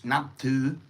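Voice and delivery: naptu said with a Thai rising tone; naptu, Thai vowels, light aspirated t; Thai word naptu. Shown as a demonstration. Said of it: "which is respect".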